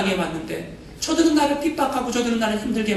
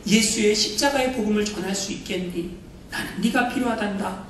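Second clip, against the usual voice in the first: voice of God; 4 semitones higher than usual. Retold or imitated. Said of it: "하나님이 선교사님을 향해서".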